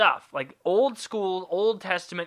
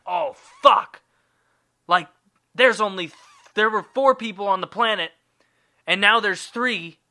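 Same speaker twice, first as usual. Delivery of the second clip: higher, louder mock panic; terrified panic; 4 semitones higher, 5 dB louder than usual. Cain realising God will find out, panicked. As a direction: blurt it out, then reckon up the disaster. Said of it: "he's terrified".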